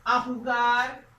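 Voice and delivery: each word drawn out slowly, x0.3 pace; slow teacher dictation. Shown as a demonstration. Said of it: "de forma negativa".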